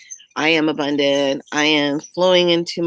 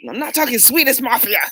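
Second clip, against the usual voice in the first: laughing insistence; 7 semitones higher than usual. Retold or imitated. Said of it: "I go".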